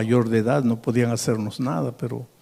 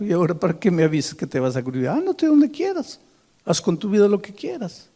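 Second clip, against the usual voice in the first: father's retold outburst, rising to a high cry; a father lashing out at his daughter, then exploding on ándate; angry father; 3 semitones higher than usual. Scene: a father scolds his daughter for leaving, angry.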